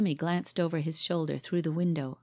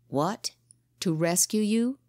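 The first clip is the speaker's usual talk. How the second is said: gasped; 2 semitones higher than usual. Acted. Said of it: "he gasped".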